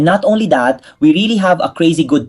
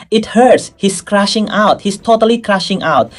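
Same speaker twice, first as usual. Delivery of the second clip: excited; 7 semitones higher than usual. Real, not acted. Reacting to shocking confession.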